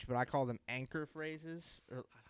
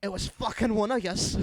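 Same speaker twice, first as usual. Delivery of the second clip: loud, high Scottish accusation; Scottish accent; 8 semitones higher, 9 dB louder than usual. Shown as a demonstration. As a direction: accuse them as an irate Scot. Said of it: "learning how to do a Scottish accent".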